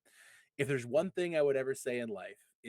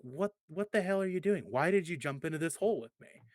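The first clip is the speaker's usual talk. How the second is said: surprised; 5 semitones higher than usual. Retold or imitated. Man shocked friend jumped in.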